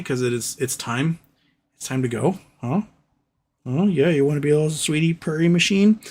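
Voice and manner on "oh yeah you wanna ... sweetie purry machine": cooing pet voice; sweet talk the purring cat. Real, not acted.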